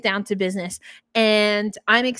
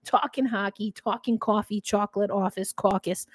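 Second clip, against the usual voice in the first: New York accent vowels in talking, coffee. Shown as a demonstration. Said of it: "my New York accent started coming out".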